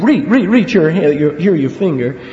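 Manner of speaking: a preacher voicing Jesus, calling it out firmly; strong command. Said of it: "he uses some very strong language here".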